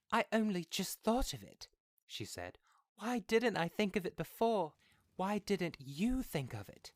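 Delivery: high, loud, half-laughing excitement; crying and laughing. A narrator's reading. Wife tells husband her sudden idea, excited. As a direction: laugh through tears at the idea. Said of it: "She cried and laughed together".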